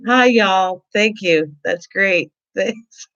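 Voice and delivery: high, perfunctory mock thanks; mock generic reply. Host mocking the chat's brush-off greeting, perfunctory. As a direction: rattle off a dutiful thanks. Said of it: "I get a".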